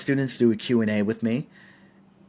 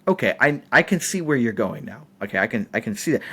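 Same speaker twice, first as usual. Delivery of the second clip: heated retort; faster than usual. Retold or imitated. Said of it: "I was very heated".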